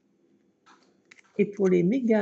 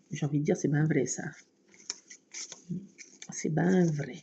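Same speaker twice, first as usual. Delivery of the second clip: folksy agreement; 6 semitones lower, 4 dB quieter than usual. Acted. Folksy approving comment.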